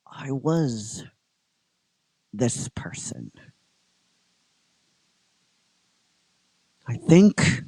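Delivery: halting, low-pitched reverie; Goldar remembering. Acted. Goldar sees his family and remembers, halting and heavy. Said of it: "And he goes".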